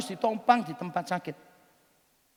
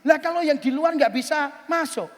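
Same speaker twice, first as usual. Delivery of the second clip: raised pitch, building to loud exasperation; incredulous scolding; 2 semitones higher, 8 dB louder than usual. Retold or imitated. Speaker arguing with friend about the oiled windows, incredulous scolding. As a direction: argue it out, louder and louder, in mock disbelief.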